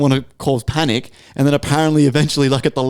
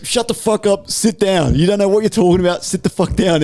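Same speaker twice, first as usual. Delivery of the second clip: imitated angry telling-off; 6 semitones higher than usual. Old guy shutting down the lady who asked about sea levels, imitated telling-off. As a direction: act out his blunt put-down without really yelling. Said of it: "he full said it like that".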